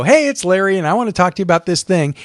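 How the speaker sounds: easy "Hey", then quick relaxed run; casual friendly intro. Shown as a demonstration. Presenter demos a casual on-camera intro again: friendly and quick. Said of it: "if you just come on and go".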